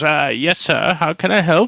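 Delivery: put-on doddering, ancient old halfling voice. An ancient halfling comes up to the front desk, in an ancient halfling voice. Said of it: "ancient halfling with glasses ... comes up and goes".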